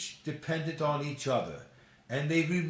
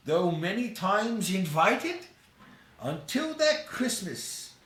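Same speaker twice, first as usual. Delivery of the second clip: put-on old Scrooge voice; 5 semitones higher than usual.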